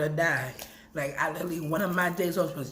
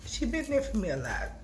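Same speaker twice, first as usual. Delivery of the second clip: holding back tears; 4 dB quieter than usual. Real, not acted. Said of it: "I said I was gonna try not to cry".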